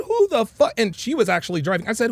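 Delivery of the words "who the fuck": re-enacted high, loud outburst; retold yell. Man blowing up at his partner, retold high yell. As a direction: yell it back as a pitched-up challenge. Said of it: "I yelled it loud and proud".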